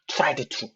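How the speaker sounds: 'tried to' with both d and t released, trai-du-tu; over-separated tried to. Shown as a demonstration. Teacher showing a forbidden version, 'tried to' as trai-du-tu. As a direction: wrongly sound every consonant in 'tried to'. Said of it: "이 발음은 안 되는 겁니다".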